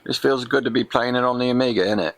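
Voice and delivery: hammed-up cockney-ish English voice; mock English accent. Gamer showing off Soccer Kid in a jokey English accent. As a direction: play a cheery Brit gamer. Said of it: "Can't get out of my Soccer Kid affectation".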